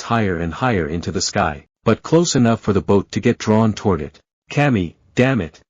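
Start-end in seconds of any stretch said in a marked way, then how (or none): 4.5-5.6 shouting. A narrator's reading. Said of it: "Naruto shouted".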